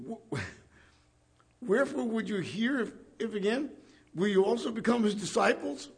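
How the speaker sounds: a mild sarcastic jab. Retold or imitated. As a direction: needle them with a pointed question. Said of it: "That was dripping with, with sarcasm".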